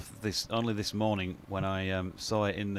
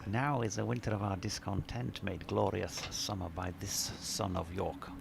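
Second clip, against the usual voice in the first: softer, lightly hammed stage-actor delivery of the soliloquy; Shakespearean actor; 5 dB quieter than usual. Commentator rereading the emailed Shakespeare quote, quiet mock theatrical. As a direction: breathe the lines out like a touch of Olivier-era theatre. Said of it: "Who are you doing there".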